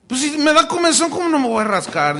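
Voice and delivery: high, loud indignant objection; mock protest. Preacher mocking homiletics rules, indignant.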